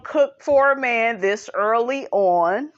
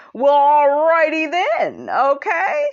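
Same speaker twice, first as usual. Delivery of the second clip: mocking sarcasm; 5 semitones higher, 4 dB louder than usual. Mocks Mark's comeback.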